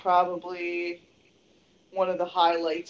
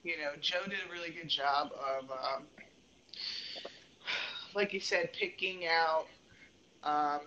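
far from mic; 3 semitones lower, 10 dB quieter than usual. Real, not acted. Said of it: "You just sound like you're far away".

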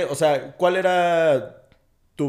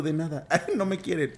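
laughing mock quote; 3 semitones higher, 4 dB quieter than usual. Mocking friend's reply, laughing.

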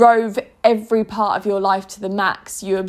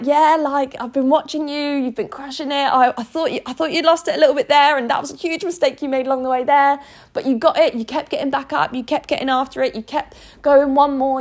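higher, upbeat voice of an encouraging future self; lightly voiced, higher, upbeat praise; proud best self; 5 semitones higher than usual. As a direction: cheer yourself on like a proud coach.

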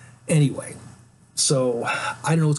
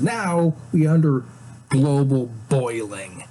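mock-solemn announcement. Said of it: "he says".

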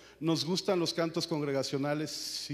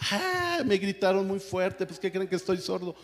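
mock grumpy God; 6 semitones higher, 6 dB louder than usual. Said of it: "Dios no se enoja a decir".

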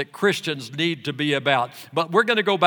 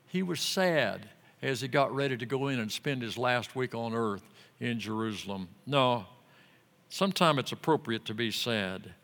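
ordinary talk

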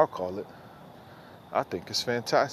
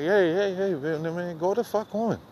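mock shooing off; 5 semitones higher than usual. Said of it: "come outside and be like".

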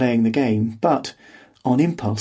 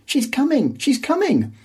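high, frantic alarm; frantic warning; 14 semitones higher than usual. A narrator's reading. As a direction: cry out in a panic. Gödel waving frantically, warning.

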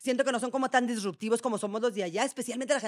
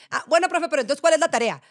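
higher, louder casual question; lightly replayed question to a teacher; own question to teacher; 4 semitones higher, 6 dB louder than usual. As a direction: ask the teacher breezily. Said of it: "una vez pregunté de que".

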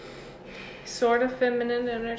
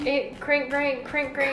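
a playful stuttered crank, laughing; jokey fake stutter on crank; mock stutter; 2 semitones higher, slower than usual. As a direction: stammer the word crank on purpose. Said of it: "I have a stuttering problem".

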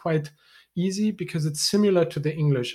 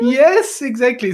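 much higher and louder, thrilled approval; excited yes; 8 semitones higher, 9 dB louder than usual. Real, not acted. Teacher cheering her learner's attempt, delighted and loud. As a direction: burst out with delighted confirmation.

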